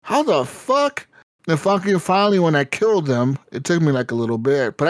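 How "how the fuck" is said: high, stretched-out how; baffled that bare hands block a sword; slow stunned disbelief. Retold or imitated. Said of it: "I'm like".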